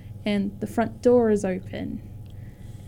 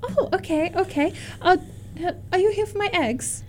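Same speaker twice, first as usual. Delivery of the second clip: put-on very old woman; 7 semitones higher, faster than usual. GM voices old Olga.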